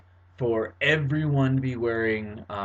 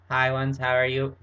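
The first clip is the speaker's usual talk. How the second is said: vocoder greeting. Shown as a demonstration. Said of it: "maybe you have, like".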